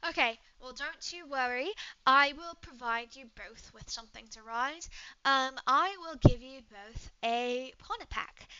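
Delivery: put-on lightly British-accented, understanding; obliging British traveler; British woman, helpful. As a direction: reassure them in a British accent.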